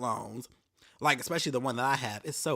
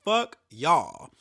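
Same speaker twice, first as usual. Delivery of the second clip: ordinary delivery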